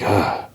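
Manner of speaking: acted-out sigh; retold sigh. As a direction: let out a breathy sigh, imitating the character. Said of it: "like, sighs".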